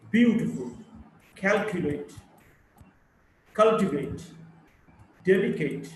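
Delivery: word list with each opening syllable punched, like EL-ephant, YES-terday; first-syllable stress. Shown as a demonstration. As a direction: stress the first syllable, as in AC-cident, BEAU-tiful. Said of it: "primary stress of the first syllable".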